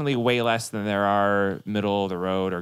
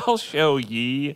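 fake robot voice; 2 semitones higher, much slower than usual. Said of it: "where did the yees come from".

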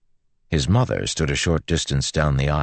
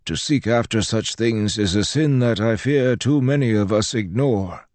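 higher-pitched priest in a character voice; preachy old priest; 9 semitones higher than usual. Acted. Priest admonishes Joel about sinful seeking, preachy. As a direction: voice a priest lecturing on sin.

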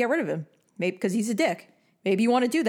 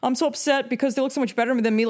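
mocking a jealous girl; 5 semitones higher than usual. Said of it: "Forget about".

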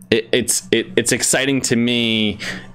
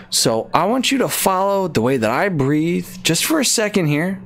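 mock calming guide; 7 semitones higher than usual. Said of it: "Welcome to the A S M R segment".

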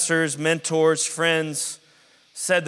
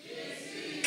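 whispered; 17 dB quieter than usual. Acted. Congregation echo whispered.

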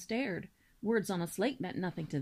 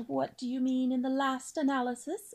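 a touch of impatience in the question; impatient; 4 semitones higher than usual. Acted. Wife swan pressing her husband, mildly impatient. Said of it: "said the swan impatiently".

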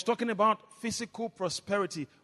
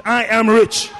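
loud declaration without raised pitch; shouted; 10 dB louder than usual. Shown as a demonstration. Preacher leading congregation to its feet, shouting. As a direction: call it out loudly. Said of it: "shout it".

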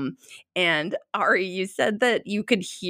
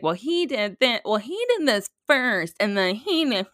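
higher-pitched mock kid complaint; imitated tattling kid; 4 semitones higher than usual. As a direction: lightly act out squabbling children. Kids tattling after a wrestling fight.

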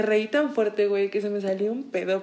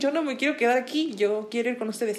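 whiny protest; 3 semitones higher than usual. Retold or imitated.

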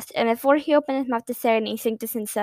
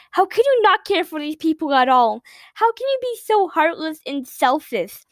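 higher, pleading reproach; tearful scolding; 3 semitones higher than usual. Acted. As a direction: scold him through tears. Girl tearfully scolds prince.

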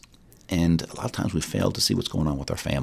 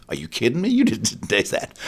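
taken aback; 4 semitones higher than usual. Retold or imitated. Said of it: "I was really taken back".

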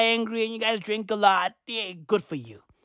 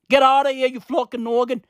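mock-angry fake Irish outburst; bad Irish accent. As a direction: throw someone out in a botched Irish accent. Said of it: "What accent is this?".

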